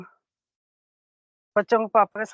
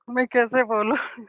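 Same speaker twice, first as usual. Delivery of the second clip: whispered, trembling with nerves; nervous whisper. Retold or imitated. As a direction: breathe it out, scared to speak. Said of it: "ऐसे घबराहट हो गई, कांप गई मैं". (घबराई हुई फुसफुसाहट)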